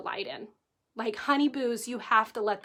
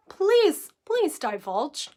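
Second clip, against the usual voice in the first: mock plea; 4 semitones higher, much slower than usual. Mock viewer pleading for detail.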